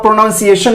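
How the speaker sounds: "प्रोनाउंसिएशन" as pro-nun-siation; full "pro", short "nun" in "प्रोनाउंसिएशन"; quick mistaken pro-nun-siation; wrong pronunciation. Shown as a demonstration. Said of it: "नहीं पढ़ेंगे".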